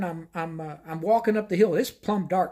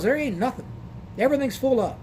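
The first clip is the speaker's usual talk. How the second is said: lightly voiced country lady, higher pitch; a hint of a fed-up small-town clerk; motel desk lady; 6 semitones higher than usual. Motel lady voiced in retold story.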